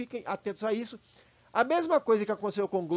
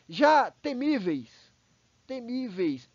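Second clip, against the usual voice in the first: "temíveis" said slowly, leaning on the "mi"; stress on temíveis; 4 semitones higher, 4 dB louder, much slower than usual. Shown as a demonstration. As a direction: stretch out "temíveis" to show the stressed syllable. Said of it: "temíveis ... paroxítona". (ênfase na sílaba "mi" de "temíveis")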